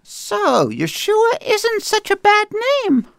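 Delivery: high Brooklyn Jewish mother voice; Brooklyn Jewish accent. Acted. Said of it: "read it with kind of a Brooklynese".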